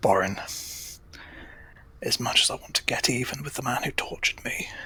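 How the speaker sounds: soft hushed whisper, under the breath. Player speaking in character to borin over a mental communication, whispering. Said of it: "I don't know why I'm whispering".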